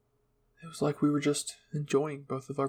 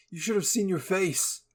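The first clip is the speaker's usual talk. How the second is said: playful teasing; 6 semitones higher than usual. Acted. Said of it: "Eren laughed and gave me a playful smile".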